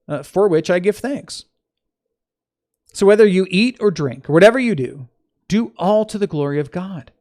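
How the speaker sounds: emphatic reading of an epistle; scripture reading. Acted. Teacher reading Paul's letter to listeners, emphatic scripture reading. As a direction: read it out clearly, lifting key phrases.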